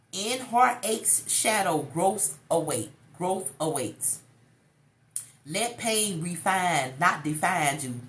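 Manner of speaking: slow, solemn affirmation; affirmation reading. Shown as a demonstration. Reading the card's message, slow and solemn. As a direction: read it like a quote of the day. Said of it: "reads thought of the day".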